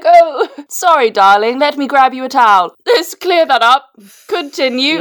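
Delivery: high, over-polite British apology; hammed-up British politeness; mock-polite Brit. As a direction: pitch it up like a fussy, courteous partner. Acted polite British partner in story.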